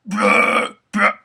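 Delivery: a rough, weak breathy try; mock bad scream. Recalling his first terrible tries, mock bad growl. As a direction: fake a clumsy beginner growl. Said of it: "When I started, it was like".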